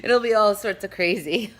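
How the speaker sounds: cracking up at your own joke; laughing. Real, not acted. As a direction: giggle your way through it. Laughing at own accent bit.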